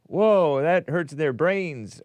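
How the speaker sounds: mock-dismayed reaction, slowing down; alarmed realization. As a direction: act out a sudden concerned second thought. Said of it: "But then I'm like".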